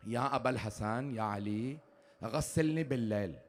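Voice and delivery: weak, soft last request; quiet dying plea. Acted. Fatima's dying request to Ali.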